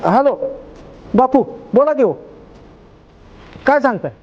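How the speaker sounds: hear the bad news and refuse it; stunned phone disbelief; shocked on the phone. Shocked phone call about son.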